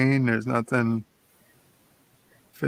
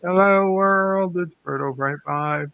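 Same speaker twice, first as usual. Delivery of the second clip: chipper; 6 semitones higher than usual. Real, not acted. Bird greeting the others in the morning, chipper. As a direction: open chirpily with a raised hello. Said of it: "you do sound very chipper".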